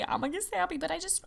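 high-pitched, sappy gushing. Real, not acted. Host thanking her community, getting sappy. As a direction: go high as the sentiment takes over.

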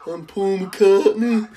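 slow, laughing mock Scouse accent; Paul McCartney impression. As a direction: drawl it out like a jokey Liverpool Beatle. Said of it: "like, real Scouser".

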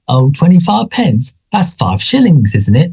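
put-on high, slow doddering old man; old man impression. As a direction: play the rambling pensioner, slow and high. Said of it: "playing up to the stereotype of an older person".

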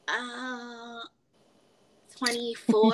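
long pause after the filler; imitated hesitant guess. Coworker guessing the teller's age, halting and hesitant. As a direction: mimic a halting, careful guess. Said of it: "me doing these pauses".

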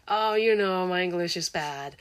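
slow, self-deprecating "my English is bad"; mock humble English. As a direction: drawl it out like a shy learner apologizing. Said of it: "因为华人很喜欢说". (慢慢地、自嘲地说英文)

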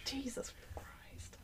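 slow, voiceless whisper; aghast whisper. Real, not acted. Co-host reacting to a slip on air, aghast whisper. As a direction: whisper it under your breath in dismay.

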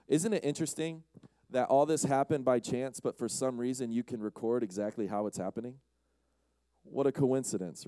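mock wonder, easing down to a dry finish; dripping sarcasm. Real, not acted. Preacher mocks the idea it all happened by chance, sarcastic. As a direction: feign fascination, then drily feign surprise. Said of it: "That's me dripping with sarcasm".

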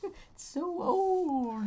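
high, slow, laughing through it. Real, not acted. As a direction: giggle the words out. Laughing at cheesy bit.

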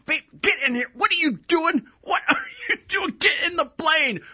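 high, strained mock cry of a husband calling his wife back in; pleading husband. Husband calls his wife back from the wing in a high, cracking mock plea. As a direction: beg her to get back inside, voice cracking high.

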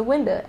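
"window" with its final O reduced to uh; dad's pronunciation. Shown as a demonstration. Confirming dad's word to cohost, imitating pronunciation. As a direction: say "window" as "winda". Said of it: "caught him say window".

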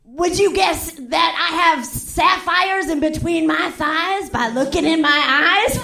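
hammed-up rhyming showman; rhyming Fancy Ray. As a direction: purr it like a lounge act. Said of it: "his whole act rhymed".

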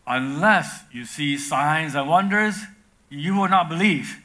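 stern rebuke. Acted. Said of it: "So Jesus said to him".

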